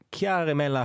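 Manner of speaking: attempted Italian with a Germanic lilt; Germanic accent. Real, not acted. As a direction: try an Italian name, landing slightly German. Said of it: "said my name in this sort of Germanic accent".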